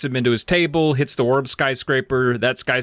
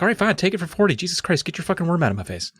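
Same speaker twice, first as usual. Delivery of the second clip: higher, fed-up mock cashier; mock cashier, higher, exasperated; 5 semitones higher, faster than usual. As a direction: give in with an irritated snap. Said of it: "she's like".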